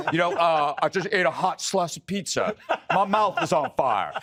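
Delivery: lightly voiced Cory Booker, hammed up; a mock Booker complaint, laughing through it; imitating Cory Booker. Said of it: "That's how he talks".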